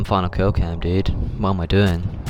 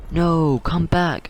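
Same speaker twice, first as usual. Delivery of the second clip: a much higher, pleading call after them; high mock call; 9 semitones higher, much slower than usual. Mark calling after the fleeing kids, high and pleading. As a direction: squeak it out as they run. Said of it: "he goes".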